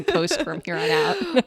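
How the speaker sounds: words broken up by a laugh. Real, not acted. Giggling as she answers her co-host. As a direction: laugh your way through it.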